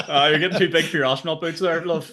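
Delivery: laughing, mocking put-down; teasing mockery. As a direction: knock her down a peg, laughing. Mates slagging her off.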